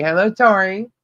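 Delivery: metallic, glitchy robotic hello; robotic sound from a bad connection. Real, not acted. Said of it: "You sound robotic".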